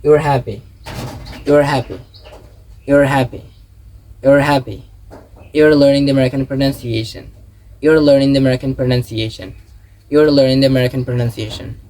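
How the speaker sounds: "You're" merged and linked to the next word; slow, measured model of "You're" sentences for repeating; connected contraction drill. Shown as a demonstration. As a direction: say each "You're" phrase as one joined unit. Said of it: "Say and repeat after me".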